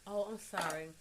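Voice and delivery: low, soft and measured apology; mock-ladylike restraint. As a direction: keep it quiet and proper, holding your voice down. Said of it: "I will not raise my voice".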